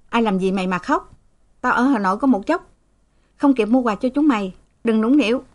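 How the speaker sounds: short-tempered scolding; snapping. Acted. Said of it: "cau mặt gắt". (người cha gắt gỏng)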